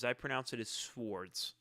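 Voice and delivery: "Swords" said like the ordinary word, with no w sound; calm, slow "Swords", not "S-words"; pronounce Swords. Shown as a demonstration. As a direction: say "Swords" plainly, slow and soft, like the weapons. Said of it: "pronounced as Swords or as S-words".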